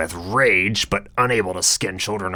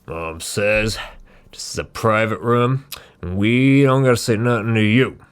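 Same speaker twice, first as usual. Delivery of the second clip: put-on higher, snotty child voice; bratty kid voice; 4 semitones higher, 5 dB louder than usual. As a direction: sneer it like a smug brat. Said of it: "and mutters".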